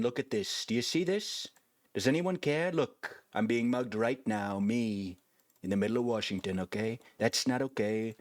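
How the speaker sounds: a touch of a grandstanding politician; political speech voice. Acted. Plays politician character in the game.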